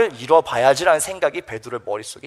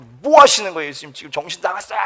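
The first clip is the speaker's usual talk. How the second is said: mock yell of protest, not at full force; 소리 지르는 항변. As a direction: act out an indignant outburst. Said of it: "막 소리를 지르면서". (소리 지르듯 따지는 흉내)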